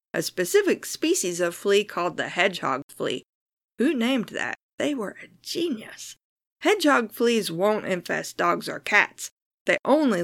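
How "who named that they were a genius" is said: sarcastic. Real, not acted. Joke about flea name.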